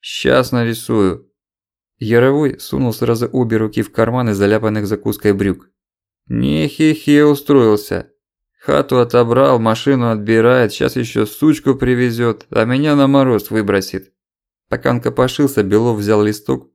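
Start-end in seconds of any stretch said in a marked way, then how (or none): 0.0-1.3 put-on slow slurred drunk voice; barely moving a drunk tongue; blackout drunk. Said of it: "еле ворочал языком". 6.3-14.1 put-on slow slurred drunken grumbling; blackout drunk. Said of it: "еле ворочал языком".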